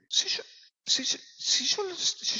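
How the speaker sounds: hushed, confiding whisper; secretive aside to the congregation. Acted. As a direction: lean in and breathe it. Preacher drops to a whisper.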